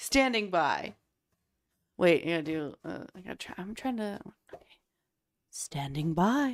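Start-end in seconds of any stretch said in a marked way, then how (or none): 5.5-6.5 professional voiceover announcer voice. Speaker tries out a line in their voiceover voice. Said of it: "it's like my voiceover voice".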